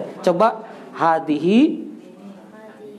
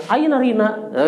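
lightly voiced Arab speaker, pitched higher; mock Arab reader; 6 semitones higher than usual. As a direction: imitate an Arab misreading the name as Rina. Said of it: "Orang Arab bilangnya".

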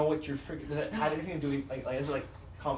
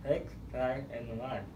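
mouthpiece in mouth. Real, not acted. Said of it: "One more time".

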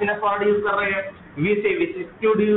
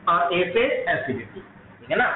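laughing. Real, not acted. Laughs while wrapping up.

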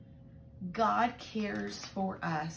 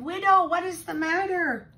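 urgent alarm; 10 semitones higher, 10 dB louder than usual. Acted. Elijah bursts in on widow.

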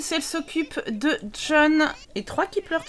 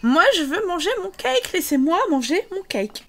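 voicing the Sim; 4 semitones higher than usual. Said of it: "elle se dit".

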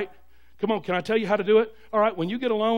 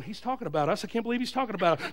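softer, fast suspicious mutter; paranoid muttering; 5 dB quieter, faster than usual. Retold or imitated. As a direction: mutter it like you're being talked about. Paranoid church member muttering.

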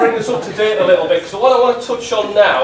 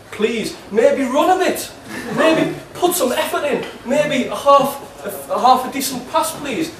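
put-on broad Geordie accent, higher and exasperated; 4 semitones higher than usual. Angry fan text to Shola in a broad Geordie accent. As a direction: keep the thick Geordie accent, nagging the striker. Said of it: "in my strongest Geordie accent".

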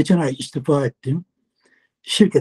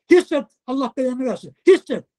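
retold yelling; 5 semitones higher than usual. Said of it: "Bağırdı".

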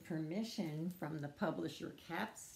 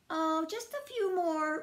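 high, louder, coaxing rabbit; blithe Rabbit; 9 semitones higher, 5 dB louder than usual. Acted. Rabbit insists to Squirrel on more carrots, blithely. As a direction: sing it out lightly, brushing off doubt.

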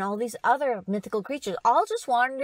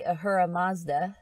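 AHURA MAZDA in an American accent; 3 semitones lower than usual. Shown as a demonstration. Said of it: "in an American accent".

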